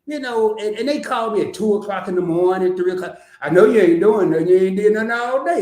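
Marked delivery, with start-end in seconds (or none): 3.4-5.6 mildly raised voice imitating a nagging friend; mock caller. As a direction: imitate a caller getting louder and more insistent. Mimicking friend who calls at night.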